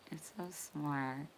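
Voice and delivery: soft unvoiced whisper; whispering praise to the chat. Real, not acted. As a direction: breathe it like a secret. Praise then whispered repeat.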